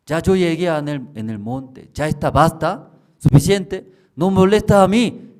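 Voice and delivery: high, loud whiny complaint; woman woken at night, high and loud; annoyed sleeper. Retold or imitated. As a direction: push the voice away, half asleep. Woman telling voice enough.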